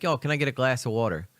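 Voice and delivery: put-on lightly slipping into Philly accent; casual hint of Philly accent. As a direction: let a touch of Philly show. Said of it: "a thick Philly accent".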